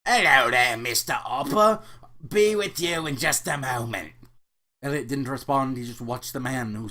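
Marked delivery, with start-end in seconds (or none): 0.1-4.1 put-on light British accent, cordial. Afterlife clerk greeting newcomer Elliot, light British accent. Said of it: "said in a distinct British accent".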